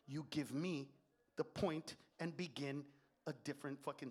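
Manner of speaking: low, measured contempt; controlled, scornful telling-off; condescending lecture. Acted. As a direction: lecture them coldly, point by point. Acted lecture to flight attendant.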